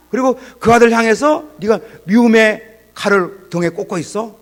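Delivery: high, loud, building indignant rebuke; preacher voicing God scolding him, loud and high; the Lord's rebuke. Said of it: "주님께서".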